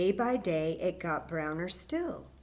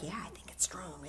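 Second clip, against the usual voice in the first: imitating a child; 2 semitones lower, 7 dB quieter, faster than usual. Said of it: "some of you are like".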